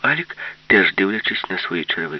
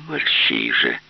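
shout; 11 semitones lower, slower than usual. Acted. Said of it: "крикнув Алік".

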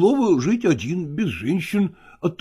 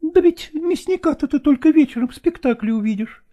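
higher voice, mild protest; objecting actress; 11 semitones higher than usual. A narrator's reading. Nastina objects to Lagorsky leaving, higher mild protest. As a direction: push back lightly, still doting. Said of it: "возражала Настина".

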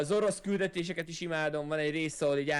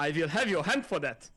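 put-on game line in a British accent. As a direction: quote it like an English game soldier. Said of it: "a brit akcentusa van az embereknek".

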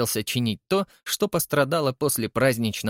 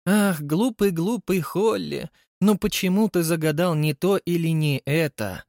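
mocking his own future voice, higher; mock self-scolding; 6 semitones higher than usual. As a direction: scold yourself in a silly voice. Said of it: "Хотел бы я говорить себе". (насмешливо передразнивает сам себя)

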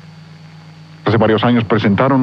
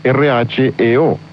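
spelled out; much slower than usual. Shown as a demonstration. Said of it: "Es la palabra griega reo".

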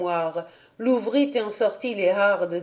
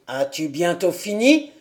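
put-on very old man; 4 semitones lower than usual. A narrator's reading. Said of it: "interrompit le vieux".

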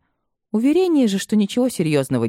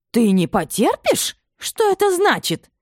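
much higher, slow, outraged disbelief; can't believe her ears; indignant exclamation; 13 semitones higher, slower than usual. A narrator's reading. Mother exclaims at her defiant son, high and slow. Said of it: "воскликнула Регина".

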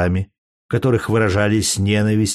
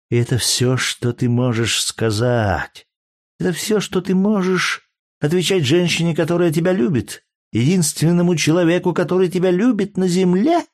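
wounded reproach; 8 semitones higher than usual. Acted. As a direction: make him feel her hurt. Hurt lover's reproach. (обиженный упрёк)

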